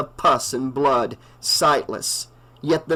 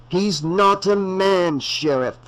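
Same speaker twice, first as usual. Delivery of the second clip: a slow, raised, ominous doctor's voice; grim old doctor; 5 semitones higher, slower than usual. A narrator's reading. Loomis warns the sheriff, slow and ominous. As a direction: warn him gravely and slowly.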